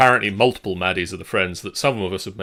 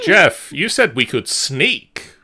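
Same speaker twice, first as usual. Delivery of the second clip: laughing; 6 semitones higher, 5 dB louder, slower than usual. Real, not acted. Laughing protest at GM.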